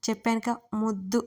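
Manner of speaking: gently coaxing his cousin; sweetly. Acted. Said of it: "ముద్దుగా చెప్పాడు".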